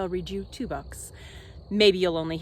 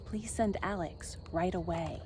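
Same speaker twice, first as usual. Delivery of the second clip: soft, distant voice down the phone; phone call voice; 4 semitones lower, 9 dB quieter than usual. Acted. Wizard phoning his office for help, deflated. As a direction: sound like a defeated call.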